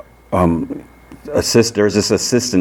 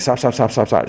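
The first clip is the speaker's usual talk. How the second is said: higher, repeated mock plea to stop; retold distress in a raised voice; 7 semitones higher than usual. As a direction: act out a mild, urgent plea to make it stop. Retold distress at rising whine.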